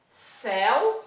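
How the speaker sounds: "Selvagem" in two parts, SEL, then VAGEM after a pause; split syllables. Shown as a demonstration. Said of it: "Qual é a última palavra". ("Selvagem" dito em pedaços, com pausa após SEL)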